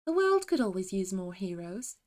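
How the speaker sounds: lightly voiced British heroine; British game voice line; fake British accent. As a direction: recite it in gentle put-on British. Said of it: "do a fake British accent".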